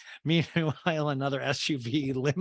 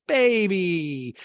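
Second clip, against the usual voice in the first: high, loud mock greeting; Crystal impression; 6 semitones higher, 7 dB louder than usual. Crystal greets Kathy, in a hammed-up call. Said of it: "And Crystal goes".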